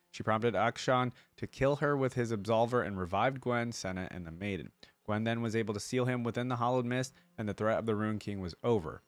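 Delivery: even, measured article read-out; reading aloud. Acted. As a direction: read it out like an encyclopedia entry. Reads the character's lore aloud.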